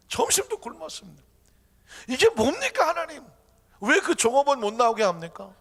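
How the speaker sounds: aggrieved, high-pitched protest; arguing complaint. Acted. Believer complaining to God about missed lunch, indignant. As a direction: whine upward in indignation. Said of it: "하고 따집니다".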